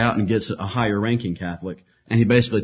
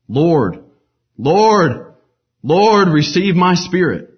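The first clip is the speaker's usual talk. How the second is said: dying prayer; 7 semitones higher, 7 dB louder, much slower than usual. A narrator's reading. Martyr's last prayer at stake.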